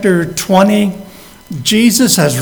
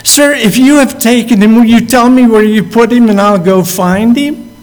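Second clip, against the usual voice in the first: anxious pleading Mary; 4 semitones higher than usual. Retold or imitated. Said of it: "And she says".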